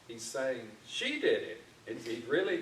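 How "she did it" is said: "She" thrown out much higher; stressed blame. Retold or imitated. Teacher voicing Adam blaming the woman, high, stressed "She". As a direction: point the finger hard with "She". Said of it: "he's really underscoring".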